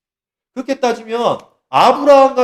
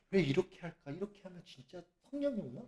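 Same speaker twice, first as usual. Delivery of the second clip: much softer puzzled question; doubtful murmur; 20 dB quieter than usual. Retold or imitated. A normal person doubts the ritual, murmuring softly. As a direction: wonder it under your breath. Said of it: "이런다고".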